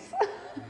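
short laugh. Real, not acted. Laughs after thanking the woman.

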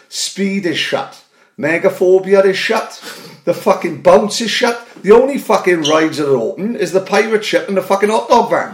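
high and loud, spelling out every closed ride; mock sign announcement. Mocking the park's sign to his podcast mate, loud and high. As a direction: announce the bad news like a tannoy. Reading the theme park sign.

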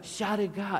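mock French accent, pitched high; heavy French accent. French stranger repeating himself to a confused tourist, French accent. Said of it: "And that's his accent".

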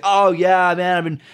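lightly hammed-up boastful voice; bragging friend. Imitating a friend bragging about his calls, lightly hammed-up boast. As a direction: puff yourself up, a mild mock brag. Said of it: "you get the voice inflection there".

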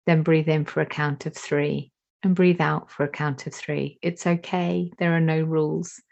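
calm, unhurried meditation guide voice; guided meditation. Acted. Teacher guiding a class into breathing, calm meditation voice.

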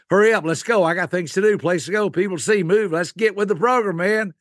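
impatient go-getter. Acted. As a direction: nag them to hurry along like a restless extrovert. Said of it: "people who are more outgoing".

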